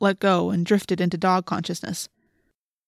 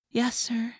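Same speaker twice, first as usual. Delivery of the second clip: tiny, higher whispered submission; soft and meek, almost whispered; humble; 4 semitones higher, 6 dB quieter than usual. A narrator's reading. Cassie answering the policeman, humble. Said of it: "in her most humble voice".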